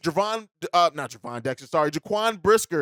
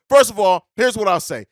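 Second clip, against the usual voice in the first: fired up; 2 semitones higher, 6 dB louder than usual. Real, not acted. Fired-up host reacting to voicemail.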